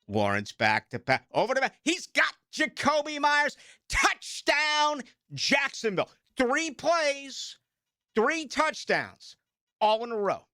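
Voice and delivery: rising, excited mock radio call of the touchdowns; excited play-by-play call. Host recreates the touchdown call for listeners, excited and high. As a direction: replay the touchdown call like the broadcaster.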